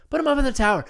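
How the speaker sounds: mock enthusiasm. Repeated higher, mocking.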